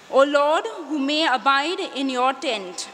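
psalm response. Shown as a demonstration. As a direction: give the response for all to repeat. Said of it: "Please repeat".

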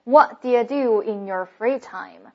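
slow reading, "do you" reduced to "dia"; weak do you. Shown as a demonstration. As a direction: squash "do you" into "d'ya" after "What". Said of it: "所以读成dia". (慢速示范，do you 读成 dia)

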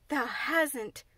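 mild surprised Yorkshire exclamation; exclaimed. Acted. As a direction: gasp out the disbelief. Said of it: "she exclaimed".

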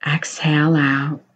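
whispered breath cue. Acted. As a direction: let the words ride the exhale.

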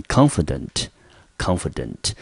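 confident said twice with stress on CON; confident repeated, first syllable stressed; model word, repeated. Shown as a demonstration. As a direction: drill confident twice for the class. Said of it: "重音节落在第一个音节".

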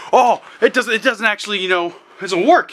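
hammed-up complaint about the disc; mock disappointment. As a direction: imitate a frustrated gamer, half laughing. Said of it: "you'd be like".

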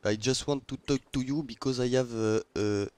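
put-on a light megaphone hail in French-accented English; megaphone announcement. Hailing a rival ship through the megaphone, a light French-accented call. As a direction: call out across the water, friendly. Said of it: "je vais sortir mon porte-voix".

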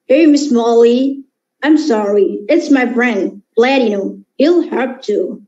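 put-on lips pushed out, boyish Kiko; Kiko's voice. Kiko apologizing to Miss Molly, lips pushed out. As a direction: speak with pouted lips like Kiko. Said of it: "uh, Kiko's voice".

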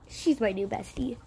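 soft secret whisper. Acted. Girl whispering about her new bestie.

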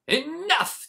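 high, loud cry of the crowd; villagers shouting enough. A narrator's reading. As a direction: yell it as the fed-up villagers. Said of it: "they said".

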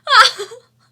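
sudden high loud "ah"; startled cry. Real, not acted. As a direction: blurt it out in shock.

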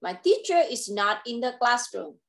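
"my teacher is not in the classroom" kept even, falling only at the very end; level statement tune. Shown as a demonstration. Teacher showing the right way to read the sentence. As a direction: read it steady, no drop midway. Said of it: "con đọc vậy".

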